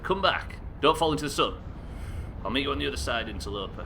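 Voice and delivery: high, loud call after it; urgent calling out. Real, not acted. Player to the runaway object falling into the sun, urgent shout. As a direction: shout for it to come back.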